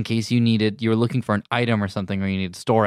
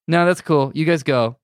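high, louder casual brush-off; breezy mock refusal; 6 semitones higher, 4 dB louder than usual. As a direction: toss off the refusal lightly.

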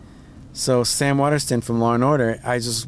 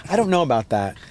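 a hint of Joy Behar, breezy and high; brushing stuff off like the talk show host; Joy Behar impression; 5 semitones higher than usual. Mocking a talk show host who brushes things off, lightly voiced. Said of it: "So she'd be like".

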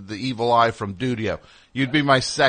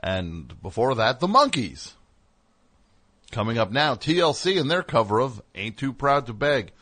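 hammed-up radio DJ voice; booming late-night DJ, slowed; Dudio radio voice; 3 semitones higher than usual. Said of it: "If Dudio did it, would be like".

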